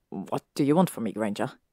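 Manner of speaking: quick, firm demand, dropping low on Granger. Acted. Draco demanding an answer from Hermione, firm and low. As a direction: press her for an answer, steady and low. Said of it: "he firmly said".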